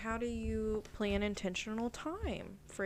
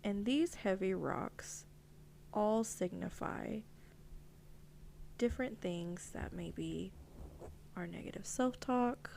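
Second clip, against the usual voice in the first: guided visualization; 4 dB quieter than usual. Acted.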